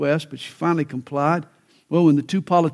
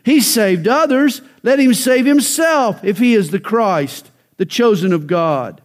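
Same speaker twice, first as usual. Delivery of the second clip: sneering; 5 semitones higher, 3 dB louder than usual. Retold or imitated. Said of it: "the rulers with them sneered".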